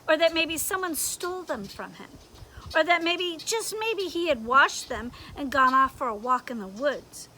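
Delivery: loud triumphant scolding; pounce, then lecture him; scolding conscience. Acted. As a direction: conscience telling Leon off, loud.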